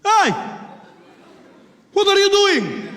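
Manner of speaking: put-on high, loud accented challenge; acted indignant passenger yelling; challenging shout. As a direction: call him out sharply in a Middle Eastern accent. Passenger confronts the bomber.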